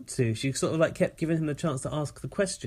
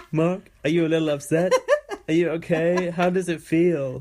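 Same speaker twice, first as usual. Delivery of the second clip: mocking Josh; 3 semitones higher, 4 dB louder than usual. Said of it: "Josh goes".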